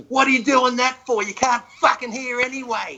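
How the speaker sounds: high-pitched retold heckler's shout; imitated yell. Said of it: "All of a sudden he yells out".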